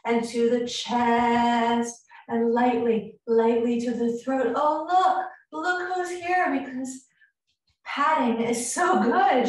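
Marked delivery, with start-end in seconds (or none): 4.5-9.5 high, cooing voice for a pet; pet talk. Real, not acted. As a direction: coo at the cat who just walked in. Pet walks in mid session.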